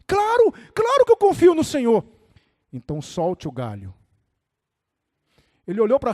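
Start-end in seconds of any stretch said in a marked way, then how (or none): 0.0-2.0 high, loud, urgent yell; acted panicked insistence; frantic assurance. Dangling man answers God urgently. 2.7-3.9 deep, calm voice of God; low, composed divine voice; voice from above. Acted. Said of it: "o Senhor falou para ele assim".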